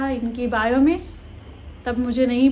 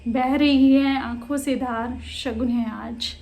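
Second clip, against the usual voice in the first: deliberate, phrase-by-phrase verse; poetry recitation. Acted. Reads the poem aloud.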